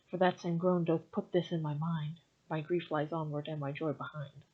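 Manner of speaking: measured recital of the sonnet; unhurried poetry reading; poem reading. Acted. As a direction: read it like verse, steady and even. Reads a Shakespeare sonnet aloud.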